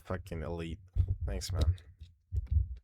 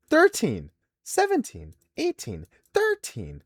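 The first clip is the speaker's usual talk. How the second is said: mock yelled ages; 6 dB louder than usual. Real, not acted. Reading out applicant ages.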